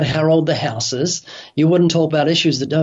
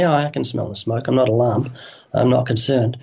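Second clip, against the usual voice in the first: unconcerned sleeper; 4 semitones lower than usual. Retold or imitated. Sleeper in a burning house, lightly mocked as lazily unbothered. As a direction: lightly voice a sleeper who can't be bothered. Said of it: "They're gonna lay in bed and say".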